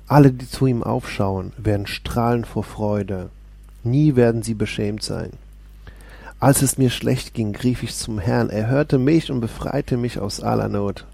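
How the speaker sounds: steady, proclaiming Bible reading; lifted, declaiming psalm voice; solemn scripture reading. Acted. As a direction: read the psalm as if preaching it. Reads Psalm aloud.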